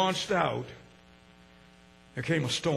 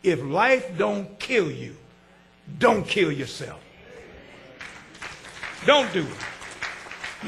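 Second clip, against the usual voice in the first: earnest plea; 2 semitones lower, 5 dB quieter, much slower than usual. Acted. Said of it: "My mama told me something".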